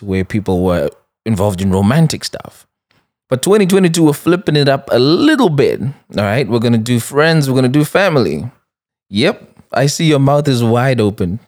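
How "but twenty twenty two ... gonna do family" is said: announcing big news. Real, not acted. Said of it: "I have some exciting news".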